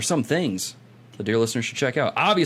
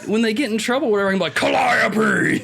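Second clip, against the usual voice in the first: excited pitch; 9 semitones higher than usual. Retold or imitated. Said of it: "I was like".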